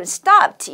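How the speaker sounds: "stopped" ending on a crisp t sound, not -ed; clear ed ending. Shown as a demonstration. Teacher showing students "stopped" with a t ending. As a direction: pronounce "stopped" with a final t. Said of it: "트 발음으로 마무리해 주셔야 되고요".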